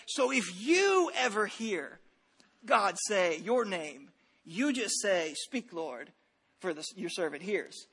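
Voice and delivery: put-on drawn-out gentle telling to small children; slow teacher telling. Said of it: "they taught it this way".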